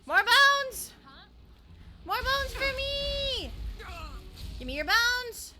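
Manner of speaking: high, gleeful greedy demand; greedy villain voice. Pretend. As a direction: crave bones like a goblin. Greedy necromancer demanding bones.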